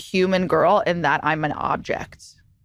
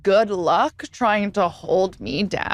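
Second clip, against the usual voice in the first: defiant; much slower than usual. Retold or imitated. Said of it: "And I said".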